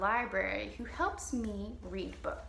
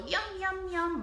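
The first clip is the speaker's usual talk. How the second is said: monster yum; 8 semitones higher than usual. Pretend. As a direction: savour it like a happy monster. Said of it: "she'll go".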